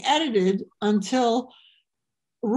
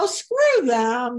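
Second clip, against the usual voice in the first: slow, louder brush-off; dismissive; 4 dB louder, slower than usual. Real, not acted. Comedian brushes off the hecklers question, slow and loud. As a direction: wave them away, drawn out.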